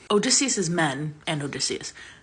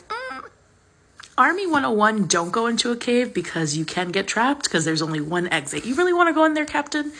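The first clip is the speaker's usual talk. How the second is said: doubtful soldier; 5 semitones higher than usual. Retold or imitated. Men warning captain.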